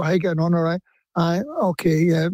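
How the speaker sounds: casual chat in a Scottish accent. Shown as a demonstration. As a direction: greet family in an easy Scottish lilt. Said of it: "I spoke like this".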